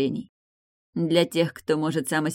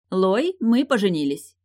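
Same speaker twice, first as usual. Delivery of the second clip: higher, louder, slow proclamation; loud announcement; 6 semitones higher, 5 dB louder than usual. Acted. Bride announces her wedding to the whole family, loud. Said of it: "громко объявила Тильда".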